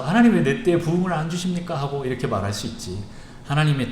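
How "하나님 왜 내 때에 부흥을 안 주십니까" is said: a touch of indignation toward God; mild angry plea. Acted. Preacher voicing an impatient believer, mild angry plea. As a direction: complain to God, lightly aggrieved. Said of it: "내가 화가 나서".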